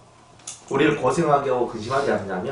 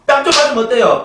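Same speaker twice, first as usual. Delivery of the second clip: louder, higher challenge to the flock; preach it loud; 11 semitones higher, 8 dB louder than usual. Real, not acted. Pastor loudly challenges the congregation, louder. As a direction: shout the challenge.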